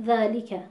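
ذالک with every letter given its full measure; measured, correct recitation of ذالک; correct Quranic articulation. Shown as a demonstration. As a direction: say ذالک carefully, full natural long ā and complete li. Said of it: "درست تلفظ کردیم".

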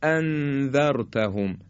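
اانذرتهم with a crisp, sharp glottal stop on the hamza; sharp hamza, slow. Shown as a demonstration. Quran teacher modelling the correct hamza for students. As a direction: land the hamza of اانذرتهم cleanly and heavily. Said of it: "حالا اگه یکی از اینا رو خوب نگیم".

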